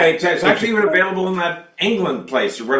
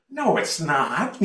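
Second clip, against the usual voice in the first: flat denial; 4 dB quieter, much slower than usual. Retold or imitated. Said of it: "I go".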